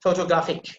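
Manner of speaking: Photographic with the R barely there. Shown as a demonstration. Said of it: "Pronounce it in this way".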